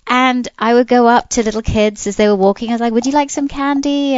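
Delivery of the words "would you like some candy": mock posh British offer of candy; British accent. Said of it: "trying to put on my bres-, best British accent".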